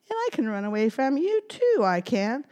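gingerbread man voice. Acted.

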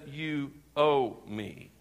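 a quiet, low growl of menace, slowed right down; slow menacing demand. Retold or imitated. Preacher voicing the servant choking his fellow, slow menacing threat. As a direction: drag out "You owe me" slowly and heavily, like a threat. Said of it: "grabs this guy by the neck and says".

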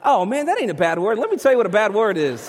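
big, hammed-up dad reaction; mock outburst. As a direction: burst out in mock protest. Dad's mock outburst after confession.

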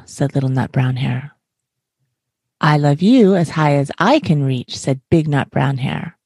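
gentle, unhurried read-aloud storyteller voice; bedtime story reading. A narrator's reading. Podcast host reads a bedtime book to listeners, gentle storytelling. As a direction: read it like tucking a child in.

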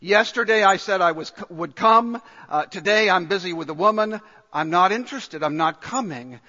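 loud, dismissive refusal; rude refusal. Retold or imitated. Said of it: "very rudely saying".

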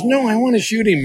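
high, insistent pleading; a hint of a stubborn daughter. Daughter insisting to Dad she wants to shoot, high and insistent. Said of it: "She goes".

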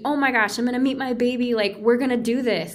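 rally with sudden fresh energy, as retold; imitated second-wind excitement; burst of energy. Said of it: "like, new burst of energy".

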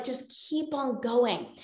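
quietly nudge, drawing the words out; urging inner voice. Acted. Binge brain urging someone already full to continue, softly insistent. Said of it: "this, this impulse".

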